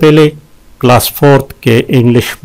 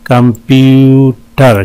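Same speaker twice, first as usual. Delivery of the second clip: "कंप्यूटर" slowly, middle syllable held long; syllable breakdown; slower than usual. Shown as a demonstration. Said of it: "तीन syllable हैं इसमें". ("कंप्यूटर" धीरे, बीच का हिस्सा खींचकर)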